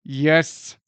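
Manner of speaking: talking through gritted teeth; words squeezed through clenched teeth. Real, not acted. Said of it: "talking through my gritted teeth".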